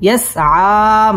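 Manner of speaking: يسعى with the final vowel drawn out one alif; one-alif long vowel. Shown as a demonstration. Teacher showing students the one-alif madd, drawn out. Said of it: "এক আলিফ টান দিয়ে পড়তে হবে".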